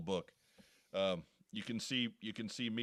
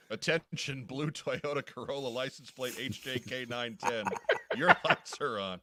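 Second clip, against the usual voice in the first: PA announcement; 2 semitones higher, 4 dB louder than usual. Acted. Parking lot PA announcement.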